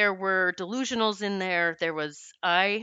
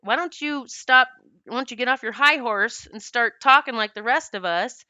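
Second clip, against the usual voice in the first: retold scream; 3 semitones higher, 5 dB louder than usual. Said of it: "she screamed at me".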